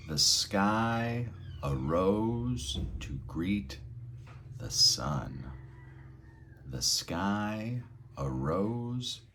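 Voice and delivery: slow, swelling and dipping on each syllable; push and pull syllables. Shown as a demonstration. Teacher demonstrating syllable push and pull, slow and swelling. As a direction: stretch and squeeze every syllable of The sky arose. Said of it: "we're gonna push and pull on the syllables".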